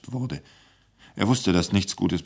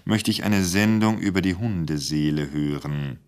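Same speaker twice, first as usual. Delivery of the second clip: gently. Acted. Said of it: "sagte der Intendant nun wieder sanft".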